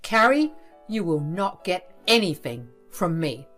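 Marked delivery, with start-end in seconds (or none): 0.0-0.5 sharp call. Acted. Father calls her sharply.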